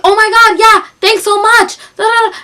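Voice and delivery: high-pitched gushing thanks, re-enacted; excited. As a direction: act out breathless gratitude on the phone. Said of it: "And I'm so excited".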